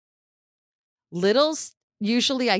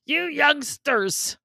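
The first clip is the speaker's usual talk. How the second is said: put-on slow grumpy old man voice; old man on the porch; 5 semitones higher, much slower than usual. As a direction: drag it out like a grumpy old-timer. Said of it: "the old man on the porch".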